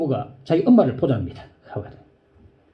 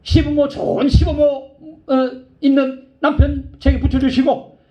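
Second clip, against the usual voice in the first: raised, pleading petition; earnest prayer; 9 semitones higher, 3 dB louder than usual. Retold or imitated. The sister pleads with God for a husband, raised and earnest. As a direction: ask God with all your heart. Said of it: "두 가지를 기도했어요".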